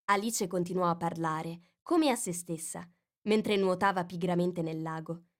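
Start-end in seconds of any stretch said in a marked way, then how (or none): none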